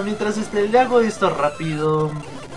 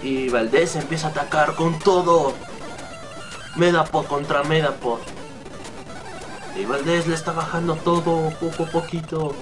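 raised, energetic battle commentary; mock play-by-play; 3 semitones higher than usual. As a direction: narrate the fight like a sportscaster.

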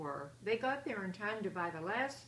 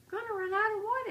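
much higher, loud puzzled question; surprised question; 12 semitones higher, 7 dB louder than usual. A narrator's reading. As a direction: ask in disbelief. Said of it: "asked Papa".

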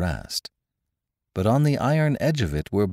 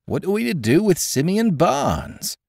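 much higher, urgent question; feverish; 13 semitones higher than usual. A narrator's reading. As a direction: ask it in a flustered rush. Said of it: "cried Gibbs in a fever".

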